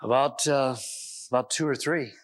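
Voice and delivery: hesitant answer with long pauses; uncomfortable stammer. Retold or imitated. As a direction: imitate an uneasy son, fidgety and halting. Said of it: "stammered and sort of, you know, felt uncomfortable".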